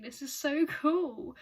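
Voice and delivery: slow, emphatic, stretched-out enthusiasm; excited. Real, not acted. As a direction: draw the words out with eager excitement. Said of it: "this is so exciting".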